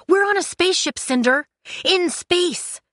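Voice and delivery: high, loud and incredulous; outraged yelling. Acted. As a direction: throw it out in exasperated disbelief. Kai's yelled quarrel continues.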